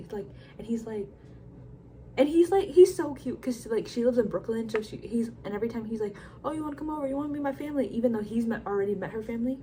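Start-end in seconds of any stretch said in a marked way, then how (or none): 6.4-7.9 high-pitched imitation of keen inviting; eager suitor. Smitten man inviting her over every time, imitated eagerness. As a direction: mimic a smitten man's hopeful invitation, pitched up.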